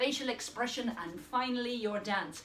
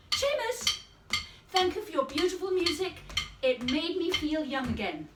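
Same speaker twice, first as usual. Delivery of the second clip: grateful demo; 4 semitones higher, 4 dB louder than usual. Shown as a demonstration. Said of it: "Last one, for now".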